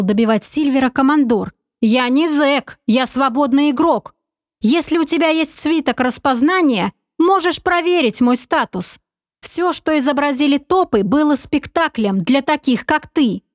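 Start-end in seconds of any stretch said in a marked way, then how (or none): 1.8-13.4 lightly raised, smooth persuader; a hint of a sly confident schemer; sly commander. Narrator voices commander Oleg.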